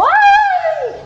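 very high, drawn-out mock scream; startled shriek. Runner surprised by a toad, high startled shriek. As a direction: squeal as if a toad jumped out.

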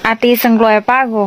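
says อาตีสังรวยปะโก clearly in Lua; a teacher gives อาตีสังรวยปะโก, "I miss you too"; Lua reply phrase. Shown as a demonstration. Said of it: "ฉันคิดถึงเธอเช่นกัน".

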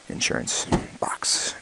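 slow soft whisper. Real, not acted. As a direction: trail off into a whisper. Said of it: "I'm talking a little quiet".

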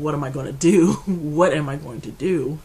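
loud, anguished plea; loud despairing wail; desperate cry. Real, not acted. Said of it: "And I'm just thinking".

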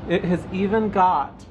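talking over truck noise; over passing truck. Real, not acted. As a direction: speak over traffic outside. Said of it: "Sorry about the truck traffic".

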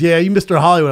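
lightly voiced pushy good ol' boy; mock Southern bar guy. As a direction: put on a loud Southern twang. Retold southern drunk bar challenger.

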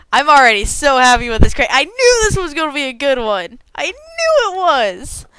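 giddy, laughing with joy; happy laugh through the words; excited laughing. Real, not acted. Thrilled by crate, laughing.

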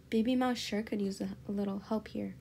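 storybook narration; narrator voice. A narrator's reading. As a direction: read it like the narrator. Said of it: "Yeah, I sure could use".

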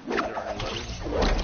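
shouted warning, sharp; loud callout. Real, not acted. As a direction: call it out loud to your team. Callout of an enemy.

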